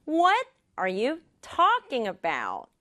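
slow, with What and talking emphasized; slow practice pace. Shown as a demonstration. Teacher leads students in repeating, slowly and deliberately. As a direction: space out the words deliberately. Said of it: "조금만 빠르게".

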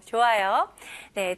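ordinary delivery

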